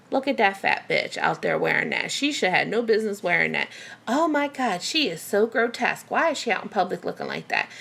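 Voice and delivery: lightly voiced gossips judging a passer-by; mild mock disgust, as overheard remarks; judgmental strangers. Imagined onlookers judging her in public, mildly scornful. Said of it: "this is what you feel like you hear".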